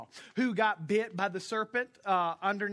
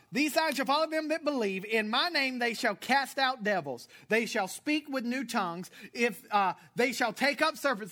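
louder, raised scripture proclamation; preached scripture reading; 4 semitones higher, 5 dB louder than usual. Acted. Pastor reading Mark to his church, proclaiming loudly. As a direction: proclaim it like the pulpit demands.

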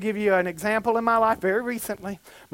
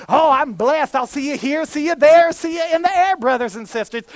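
churchy sing-song; 4 semitones higher, 4 dB louder than usual. Retold or imitated. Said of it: "Did you speak churchanese?".

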